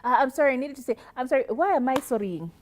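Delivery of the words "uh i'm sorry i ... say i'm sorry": over-apologizing. Retold or imitated. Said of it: "apologizing vehemently".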